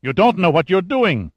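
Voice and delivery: high, heated objection; agitated protest. A narrator's reading. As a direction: protest urgently, pitch leaping up. Doctor protests to armed agent.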